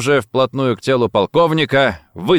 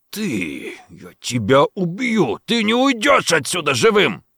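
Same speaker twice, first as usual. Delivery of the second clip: angry threat; 6 semitones higher than usual. A narrator's reading. Colonel threatens his captor, rising angry threat. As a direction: spit the threat, rising as it goes. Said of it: "гневно начал он".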